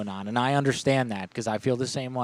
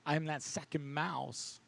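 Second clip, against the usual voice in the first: mock solemn parable; 4 dB quieter than usual. Mock wise parable, slow.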